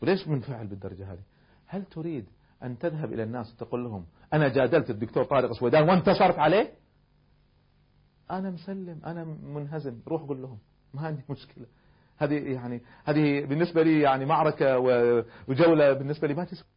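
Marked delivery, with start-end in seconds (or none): 0.0-11.7 calm reply. Retold or imitated. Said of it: "فقلت له".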